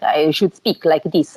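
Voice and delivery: joking demo of a stereotyped Eastern European accent; mock Eastern European accent. Shown as a demonstration. Showing the interviewer the accent people expect, mock Eastern European. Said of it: "it doesn't sound Eastern European".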